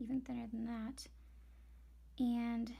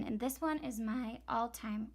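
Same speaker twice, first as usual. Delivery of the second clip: voice cracking. Real, not acted. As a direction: voice cracking up an octave. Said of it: "whoa, my voice just cracked".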